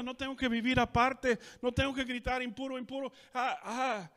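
high and loud, overjoyed healed leper; cured leper celebrating. Acted. Preacher repeats the healed leper in Spanish, elated and loud. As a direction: crow about the new life, too happy to look back. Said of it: "Don't be like those nine guys".

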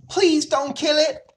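high, loud, slow pleading; sobbed plea. Acted. Fern begs her father for the pig, sobbing plea. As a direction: plead like a distraught child. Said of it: "she sobbed".

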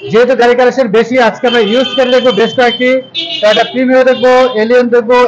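loud, projected presenter opening; vlog intro. Real, not acted. Presenter's opening address to viewers.

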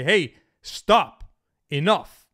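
loud, sharp command to stop; firm stop. Shown as a demonstration. Man putting his foot down with his woman, loud firm stop. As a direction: plant your feet and shut it down firmly. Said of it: "put your foot down and say".

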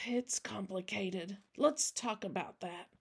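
put-on soft, heavy-hearted old man; quiet, resigned reply to a child; sighing. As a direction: sigh first, then answer softly. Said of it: "Jack sighed".

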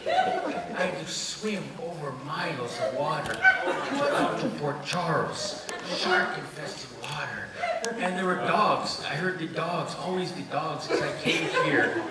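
put-on very slow, melodramatic Mexican accent; revolutionary's grand monologue in a Mexican accent. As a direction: drag it out in a hammy Mexican accent. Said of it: "a Mexican accent".

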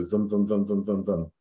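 lightly imitated bodily thrum; imitated body pulsing. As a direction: chant vum-vum like a steady throb. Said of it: "your body's just going".

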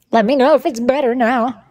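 wavering, warbled voice effect; vibrato effect. Real, not acted. Streamer asking chat about the fix, warbling vibrato. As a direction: talk through a wobbly vibrato filter. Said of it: "than your vibrato".

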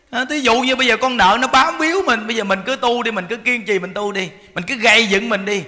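ordinary talk, nothing marked

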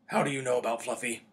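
loud, startled Hagrid voice. A narrator's reading. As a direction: blurt it out loudly, caught off guard. Startled Hagrid drops the teapot.

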